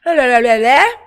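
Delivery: loud gibberish mimicking fake English; mock English babble. Mother imitating her son's fake English babble, loud and playful. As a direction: babble nonsense syllables like faking a foreign language. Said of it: "começou a enrolar a boca".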